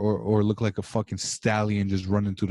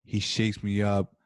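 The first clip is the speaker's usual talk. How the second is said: mock-passionate; slower than usual. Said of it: "I can see the passion".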